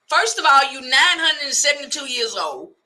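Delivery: comic scolding outburst; mock outrage. Mock rant about baby hair.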